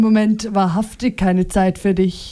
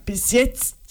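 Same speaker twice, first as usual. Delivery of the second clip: "jetzt" stressed with a rising echo; vehement; 4 dB quieter than usual. A narrator's reading. Nino echoing his wife's words, vehement. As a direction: throw her "Bis jetzt" back with heat. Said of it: "antwortete Nino heftig".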